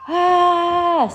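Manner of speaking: short high imitated kid's scream; a quick burst of a child's yell; mock scream. Mother imitating her son's scream at the airport, short high mock yell. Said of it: "keeps on screaming".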